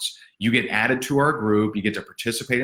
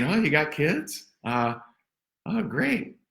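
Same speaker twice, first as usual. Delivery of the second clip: higher, softer, fading mock chit-chat; awkward small talk; 6 semitones higher, 5 dB quieter than usual. Coach mocking a caller's forced small talk on the phone, higher and fading. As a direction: limp forced enthusiasm from a clumsy caller. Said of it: "than me saying".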